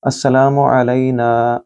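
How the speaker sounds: अस्सलामु with a long ला; slow recitation; long vowels. Shown as a demonstration. Teacher demonstrating the greeting, slow recitation. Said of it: "लाम को फिर लंबा करें".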